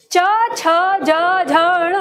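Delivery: च छ ज झ ण said in a quick run; palatal consonant drill. Shown as a demonstration. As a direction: drill च छ ज झ ण quickly in one breath. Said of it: "आपको उच्चारण कैसे करना है?". (च छ ज झ ण जल्दी-जल्दी बोलकर अभ्यास)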